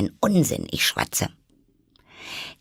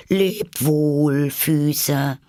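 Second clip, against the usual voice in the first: put-on higher, louder girlish goodbye; farewell to feet; 6 semitones higher, 4 dB louder, much slower than usual. A narrator's reading. Alice saying goodbye to her shrinking feet, higher and louder. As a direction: wave off your far-away feet.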